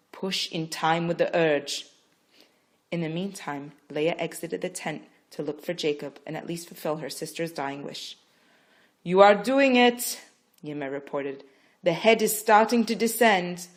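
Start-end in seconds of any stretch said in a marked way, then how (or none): 0.1-1.9 slow, steady coaching; encouraging. Acted. Midwife encouraging Rachel. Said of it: "Yima encouraged". 9.0-10.2 loud, high, slow; excited cheer. Acted. Midwife cheering Rachel on, excited. 11.8-13.7 excited report. Acted. Midwife reporting progress.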